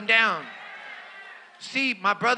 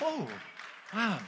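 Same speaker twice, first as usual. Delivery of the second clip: quiet wow; 12 dB quieter than usual. Retold or imitated. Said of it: "I'm like".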